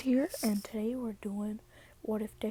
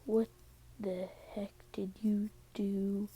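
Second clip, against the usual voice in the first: staring accusation; 6 dB quieter than usual. Acted. Mother stares down her daughter's boyfriend, quietly accusing. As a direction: space the words out, softly menacing. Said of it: "just staring at him with, like".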